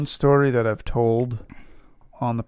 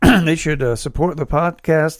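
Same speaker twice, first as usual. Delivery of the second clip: rising, louder creeping vampire voice; 4 semitones higher, 4 dB louder than usual. Pretend. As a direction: slide into a hammy vampire. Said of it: "It's slowly turning into a vampire voice".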